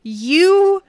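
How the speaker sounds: slow, loud, menacing inner voice. Acted. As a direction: tempt them toward rage, slowly. GM voicing rage-filled inner thoughts.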